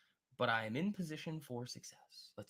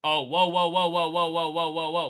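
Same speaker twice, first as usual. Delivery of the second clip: loud, high string of whoas; surprised whoa; 5 semitones higher, 10 dB louder than usual. Real, not acted. Trader sees the ten-year ripping, loud surprised whoas. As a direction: react to a sudden shock on the chart. Sudden spike on the chart.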